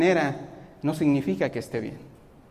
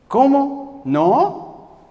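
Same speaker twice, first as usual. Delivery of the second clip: defiant stubborn voice; 3 dB louder, slower than usual. Pretend. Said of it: "Me defiendo".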